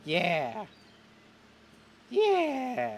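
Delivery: slightly high, halting character voice; consoled griever. Acted. Chet names Graham a new god, tentatively hopeful. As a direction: slowly take heart in a new belief.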